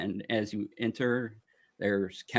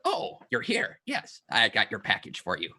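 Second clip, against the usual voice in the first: gnome welcome; 2 semitones higher than usual. Acted. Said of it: "And he's like".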